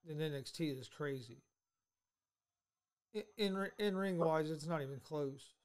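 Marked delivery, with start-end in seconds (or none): 3.2-5.5 muffled, boxed-in phone sound; as if speaking from inside a box. Real, not acted. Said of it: "Sounds like you're in a box".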